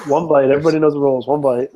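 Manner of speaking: Barstool pizza review. Retold or imitated. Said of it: "sounded like Barstool president".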